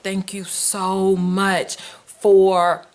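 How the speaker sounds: slow, drawn-out retold thanks; appreciative. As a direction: imitate a mother's heartfelt gratitude, lingering on the words. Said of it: "she's just so appreciative".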